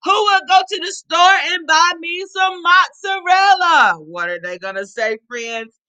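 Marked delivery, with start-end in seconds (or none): 0.0-3.9 calling out. Acted. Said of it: "She stuck her head out the window".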